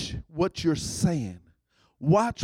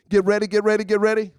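imitating a preacher; 2 semitones higher, much faster than usual. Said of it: "like that famous preacher said".

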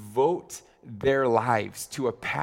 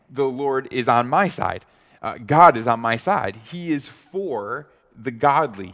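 louder, ringing declaration of faith; proclaiming loudly; 6 dB louder than usual. Acted. Pastor voicing David declaring God is on his side, loud. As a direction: cry it out with conviction.

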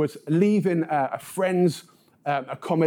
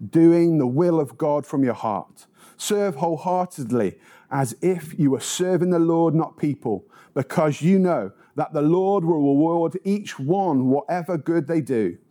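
measured solemn Bible reading; scripture reading; 3 semitones lower than usual. Acted. Reads scripture aloud.

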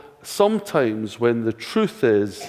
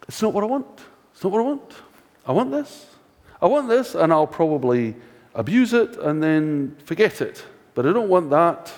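put-on whiny child; 4 semitones higher than usual. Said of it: "the kid".

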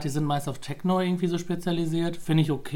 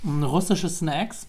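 chewing while talking, slowly; words round a bite of food; mouth full; 3 semitones higher, much slower than usual. Real, not acted. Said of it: "ich esse gerade".

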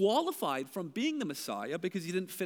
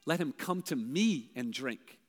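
gentle invitation; 4 semitones lower, 3 dB quieter, slower than usual. Retold or imitated. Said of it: "They heard what Jesus said".

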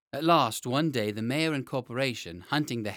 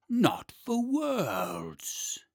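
growling dragon guarding treasure; 6 semitones higher, much slower than usual. Acted. Dragon reassures children.

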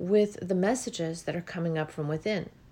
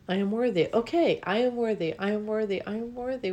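sincere affirmation; 3 semitones higher than usual. Real, not acted. Speaker practising self-worth aloud, gentle and sincere. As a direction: say it until you believe it. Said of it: "I want to comply".

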